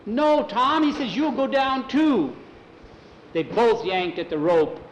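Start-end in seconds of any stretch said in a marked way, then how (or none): 0.1-2.4 much higher, loud, slower pleading; frightened plea. Acted. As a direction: beg him not to go. Jackie stopping Tom, frightened.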